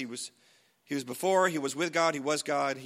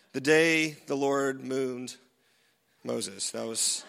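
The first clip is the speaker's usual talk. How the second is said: laughing; 5 semitones lower, much slower than usual. Real, not acted. Laughs at own joke.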